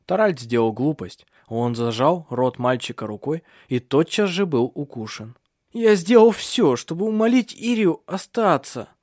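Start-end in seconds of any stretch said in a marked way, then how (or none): 5.7-8.9 groaning in pain. A narrator's reading. Bitten son groaning to his parents. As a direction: push the words through the pain. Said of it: "простонал он".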